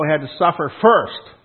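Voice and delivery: "He had to suffer FIRST", with a punch on "first"; punched emphasis. Shown as a demonstration. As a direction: drive "first" home at the end of "He had to suffer first". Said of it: "Had to punch that through the skull".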